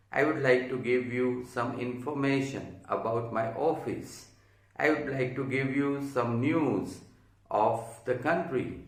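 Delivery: slow, clear demo sentences; patient classroom drills; slow example drill. Shown as a demonstration. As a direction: read out each example slowly. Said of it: "let me repeat the last time".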